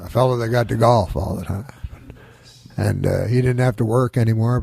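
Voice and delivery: light impression of a halting statesman; Nixon. Comic doing Nixon on the meaning of life, lightly voiced. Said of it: "do my impression of Nixon".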